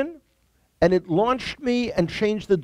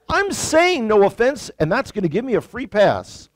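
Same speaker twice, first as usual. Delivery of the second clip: smug mock excuse; 5 semitones higher, 3 dB louder than usual. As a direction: play it like a free pass. Mocking American excuse.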